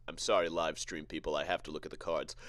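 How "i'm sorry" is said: ordinary delivery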